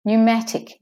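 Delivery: "pneumatic" with NYOO and MAT both full; all syllables stressed. Shown as a demonstration. Teacher demonstrating for learners, evenly stressed "pneumatic". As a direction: give each syllable of "pneumatic" weight, silent P. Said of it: "all of them are".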